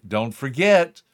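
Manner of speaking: earnest wake-up words to a loved one; tender reminder. Pretend. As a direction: lean in and tell them gently. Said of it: "me looking at you and saying".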